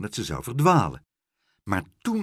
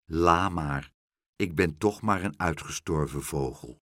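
sad resignation; 4 semitones lower than usual. Acted. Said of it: "keek hem treurig aan".

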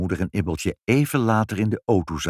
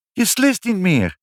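high, loud and slow; amazed exclamation; 5 dB louder, slower than usual. A narrator's reading. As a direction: announce it in wonder. Wife exclaims at sudden cure.

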